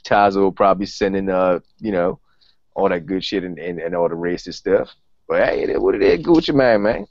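a lightly voiced Southern rapper, laid-back and boastful; a rapper impression. Host signs off the podcast as a rapper, lightly voiced rapper. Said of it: "Just the host talking like a rapper".

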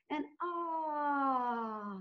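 drawn-out firework ah after the clap; fireworks cheer ah. Shown as a demonstration. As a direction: let the ah burst like a firework. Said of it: "let's do, the firecracker, fireworks cheer".

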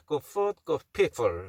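"food" on an F, "people" on lip-closed Ps; proper F then P. Shown as a demonstration. Teacher modelling "food" and "people", F then a clear P. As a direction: switch cleanly from F in "food" to P in "people". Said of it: "이렇게 발음해야 되죠".

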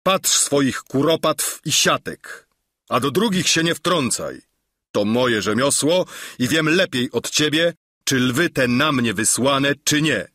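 a mild snap at the meddling nobleman; understated scolding, telling him off; snapping rebuke. Acted. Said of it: "ofuknie Don Kiszot". (lekkie ofuknięcie)

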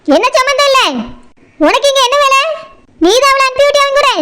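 put-on accusing questions fired at the girl; indignant cross-examination without shouting; angry interrogation. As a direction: demand answers, mildly angry. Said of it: "நீங்க கோவப்படாதீங்க".

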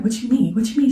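shocked what-do-you-mean; stunned question. Retold or imitated. Vlogger retelling her shocked reply to her sister, stunned.

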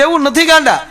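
high, pointed scolding call; chiding. Retold or imitated. The speaker scolds his friend, high and pointed. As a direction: jab back at him, half laughing.

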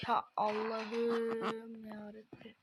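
slow, weary plea to God; exasperated groan. Real, not acted. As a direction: drag it out in despair. Car keeps crashing. (bıkkın inleme)

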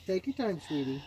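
soft coaxing to a dog. Real, not acted. Soothing the dog.

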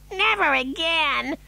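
high, slow, weak wail; gasping. A narrator's reading. Mother after the dreadful ride, gasping. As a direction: gasp it out high and drawn out. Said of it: "gasped Missus T V".

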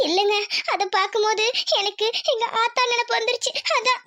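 homesick, halting sadness; tearful. Acted. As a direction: confess a sad memory through tears. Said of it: "அதுக்கே அழுகுற". (அழுகையோடு ஏக்கமாக)

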